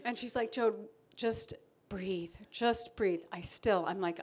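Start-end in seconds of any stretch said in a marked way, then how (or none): 0.5-3.2 slow calming breathe. Retold or imitated. Friend calming her panic.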